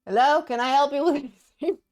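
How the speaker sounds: high, loud call toward the noises; real call-out. Real, not acted. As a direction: call out loud to whoever is there. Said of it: "I hear noises".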